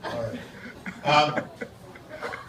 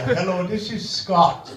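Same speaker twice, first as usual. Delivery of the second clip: slow mock Indian accent, raised pitch; Indian call-center accent; 4 semitones higher, slower than usual. Call-center worker in India answering a customer, Indian accent. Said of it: "The guy will answer in India".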